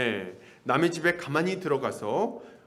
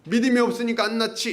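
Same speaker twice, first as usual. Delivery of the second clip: confident guru; 5 semitones higher, 3 dB louder than usual. Retold or imitated. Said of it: "이렇게 얘기하면서".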